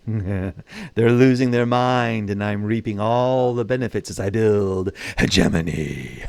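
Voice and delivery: slow, chuckling through the words; gleeful gloating laugh. Real, not acted. Gamer gloating to viewers about Britain's civil war, laughing slowly. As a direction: laugh at their misfortune while speaking slowly.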